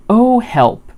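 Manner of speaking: loud, high little cry for help; a storybook plea from someone stuck; mock distress. A narrator's reading. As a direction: call out in mild dismay. Pooh stuck in the jar.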